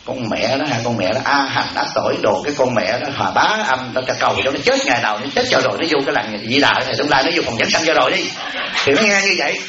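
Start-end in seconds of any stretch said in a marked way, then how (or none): 0.1-8.2 low-pitched, lightly acted griping; griping daughter-in-law. Daughter-in-law complains to her friend by phone, lightly acted griping. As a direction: grumble lower about the mother-in-law. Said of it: "nó ngồi nó nói chuyện điện thoại với con bạn nó".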